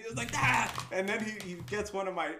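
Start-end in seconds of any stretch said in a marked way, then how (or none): 0.3-0.6 loud, higher burst of "Ah!"; short retold yelp. Boss going through his papers, a short loud yelp. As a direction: let out a sudden mock yell.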